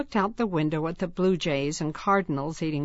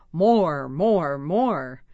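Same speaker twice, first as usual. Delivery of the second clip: greedy pig; 5 dB louder, much slower than usual. Pretend. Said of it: "Pretend to eat fast".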